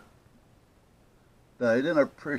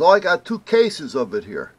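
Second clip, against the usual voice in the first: high, loud clerk announcing a find; retold discovery; 7 semitones higher, 9 dB louder than usual. Paint clerk tells caller what he has, pleasantly surprised. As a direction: imitate a clerk piping up with good news.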